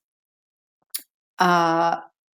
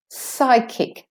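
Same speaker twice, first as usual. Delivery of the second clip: "Psychic" higher, with a slightly long SY; longer first syllable; 4 semitones higher than usual. Shown as a demonstration. Teacher demonstrating, "Psychic" with lengthened first syllable. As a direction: linger slightly on SY in "Psychic", crisp kik. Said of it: "psi is slightly longer".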